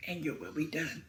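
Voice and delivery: soft, hushed plea to God; quiet prayer. Retold or imitated. Mother praying for her son, soft and hushed. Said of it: "I just started praying".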